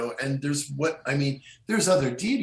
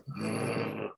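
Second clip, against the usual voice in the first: werewolf growl; 2 semitones lower, 7 dB quieter than usual. Shown as a demonstration. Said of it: "My students have noticed me growling".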